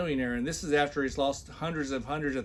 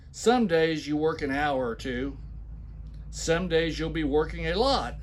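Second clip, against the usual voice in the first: mock emphatic reading. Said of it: "when I put heavy accents and shout".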